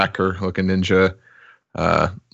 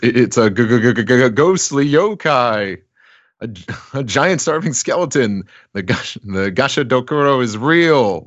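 stammering fright; 5 semitones higher than usual. Acted. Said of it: "either Fujin or Raijin says".

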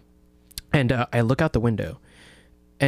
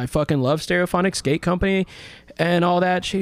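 much higher, breathless fanboy gushing; 6 semitones higher than usual. Retold or imitated. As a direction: pour it out like a starstruck kid. Retelling gushing to celebrity.

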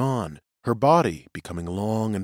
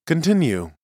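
presiding seer; 6 semitones higher than usual. Acted. Seer to witness.

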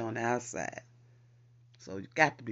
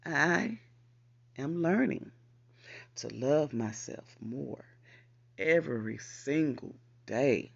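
louder, slow, word by word; for the people in the back; 4 dB louder, slower than usual. Shown as a demonstration. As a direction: project to the back row. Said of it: "repeat that for the people in the back".

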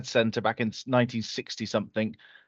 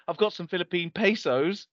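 put-on boyish voice; 5 semitones higher than usual. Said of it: "intimidated, like, boyish voice".

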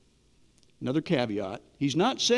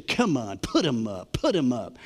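mock challenge; 5 semitones lower than usual. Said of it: "with this chip on their shoulder as if to say".

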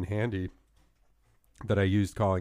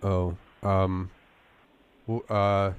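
fake sick voice. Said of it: "my fake sick voice".

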